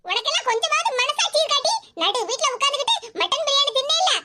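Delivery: aggrieved mother telling off her daughter; mildly heated reproach; angry scolding. Acted. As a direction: scold indignantly, without shouting. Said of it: "இவ்வளவு கோவம்".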